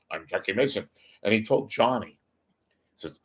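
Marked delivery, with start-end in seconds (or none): 0.1-0.9 put-on Catskills comic's New York accent; Jackie Mason. Famous comedian introducing himself, imitated New York accent. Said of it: "he used to talk like this".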